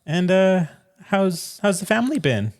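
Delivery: high, sweet therapist voice. Pretend. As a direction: gently coax a young patient. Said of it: "act out a possible therapy session".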